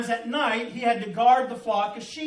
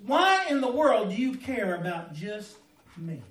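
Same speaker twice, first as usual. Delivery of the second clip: loud amazed; 6 dB louder than usual. Retold or imitated. David marvelling at God under the stars, loud awe. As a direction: burst out in awe at God's care. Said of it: "In other words".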